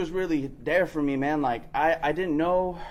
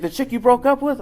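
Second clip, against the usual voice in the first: high, loud, incredulous; surprised question; 8 semitones higher, 7 dB louder than usual. Retold or imitated. Mentor asking if he's with his ex, incredulous. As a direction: sound caught off guard.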